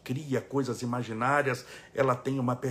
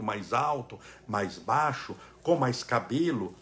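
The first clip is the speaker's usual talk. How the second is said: usual speaking voice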